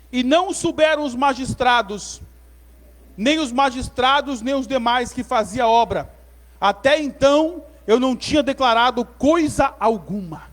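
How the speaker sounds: measured, emphatic pulpit reading; scripture reading. A narrator's reading. Preacher reading Neemias to the church, solemn proclamation. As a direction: proclaim the verse phrase by phrase.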